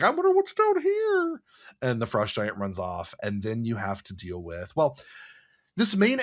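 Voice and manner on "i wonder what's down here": curious adventurer. Pretend. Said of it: "Maybe you're like".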